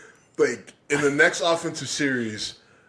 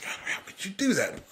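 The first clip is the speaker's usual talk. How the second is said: mock offended whine; 5 semitones higher, 5 dB quieter than usual. Mocking easily offended people.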